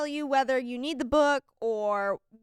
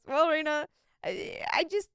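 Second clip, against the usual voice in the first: nice teacher, gentle and rising; 3 semitones higher than usual. Retold or imitated. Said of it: "that's how he would say it".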